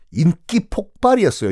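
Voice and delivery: ordinary talk, nothing marked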